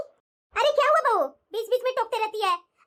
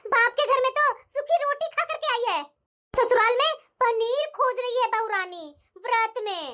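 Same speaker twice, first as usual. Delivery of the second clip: sarcastic taunt. Acted. Mother-in-law mocks bahu's wish.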